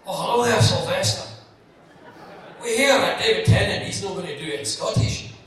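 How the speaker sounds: loudly voiced reporter on the phone; press caller. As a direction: put on a loud, hailing journalist caller. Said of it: "the press phoned me up".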